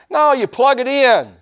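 high and loud, slow and firm; slow down and press the point home; punchy preacher correction; emphatic correction. Acted. Preacher corrects the mock boast.

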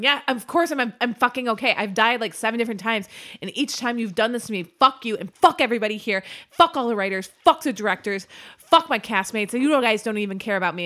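loud, raging, swearing actor blowing up at the crew; furious rant. Retold or imitated. Actor yells at crew for killing his character, loud and furious. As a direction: spit it out like a fed-up star losing it on set.

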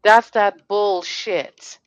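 each word spelled out slowly and hard; slow, weighty disgust; slow emphatic anger. Real, not acted. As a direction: lay it down word by word, fed up. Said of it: "And now I'm getting mad".

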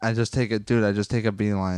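glitchy robotic connection; metallic, robotic-sounding audio. Real, not acted. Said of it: "you sound robotic again".

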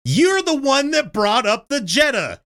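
high, slow, indignant comeback; angry retort. Retold or imitated. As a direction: throw it back at him, fed up. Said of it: "I was so mad".

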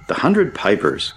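slow, lifted cry of recognition. A narrator's reading. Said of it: "cried Harry".

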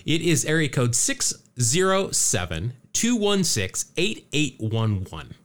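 slow "six zero seven", each digit set apart; careful dictation. Real, not acted. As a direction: read out "two one six, eight eight one one" digit by digit. Repeats phone number for listeners.

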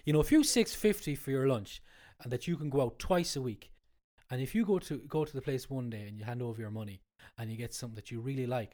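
blocked nose from a cold; stuffy nose. Real, not acted. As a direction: speak through a head cold. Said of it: "I have a cold, that's why I sound like this".

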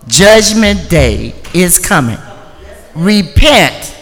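loud warning call to repent; doomsday street preacher. Acted. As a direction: proclaim doom to the crowd. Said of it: "repeats the proclamation".

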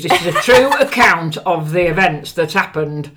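broad Yorkshire accent reading a serious line. Shown as a demonstration. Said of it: "in my Yorkshire accent".

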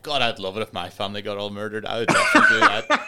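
hammed-up lad, rising to a loud excited climax; imitating an eager lad. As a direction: ham up a lad fired up by a revenge film. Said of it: "that film makes every lad go".

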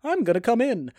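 exaggerated swooping film-star impression; mock leading man, pitch leaping up at the end; put-on Tom Hanks voice. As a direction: play the visitor in a swooping put-on voice. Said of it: "Tom Hanks is there, and he's just like".

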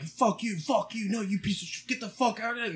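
high, soft mock barking in words; dogs barking as words. Dogs at the fence barking at intruders, mock-voiced high.

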